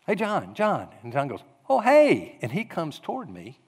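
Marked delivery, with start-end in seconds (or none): 0.1-0.9 higher-pitched hail; lightly acted call to catch someone. Pastor trying to catch John's attention, calling his name. 1.7-2.4 high, loud "noticed you" greeting; sudden bright hail back, voice jumping up; delighted greeting. Acted. John spotting the pastor and answering, loud glad surprise. John's acted friendly reply to call.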